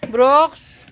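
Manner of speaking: name called with a rising end; calling out. Shown as a demonstration. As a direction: show a child how to call someone over. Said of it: "Sabi mo kay Brooks". (patawag, pataas ang dulo)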